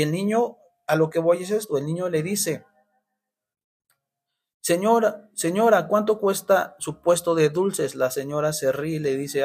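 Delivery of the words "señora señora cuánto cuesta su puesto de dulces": put-on eager boy calling. Boy calls to candy seller.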